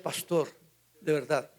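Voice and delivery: soft, lightly tearful plea; retold tearful plea. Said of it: "y me lo dijo llorando". (súplica con un leve llanto, más suave)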